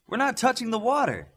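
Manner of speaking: stunned by discovery; amazed. A narrator's reading. Darkspeed realizes the boat is flying, astonished.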